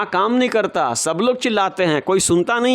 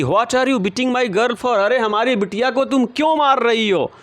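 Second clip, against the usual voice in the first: raised, protesting mother's voice; mother defending her girl, raised and indignant; 5 semitones higher than usual. Retold or imitated. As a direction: challenge the neighbour, voice lifted. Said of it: "मलासा की माँ कहती हैं कि".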